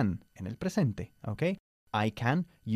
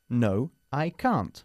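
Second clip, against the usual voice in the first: slow model answer; much slower than usual. Shown as a demonstration. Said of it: "quiero que me digas que no".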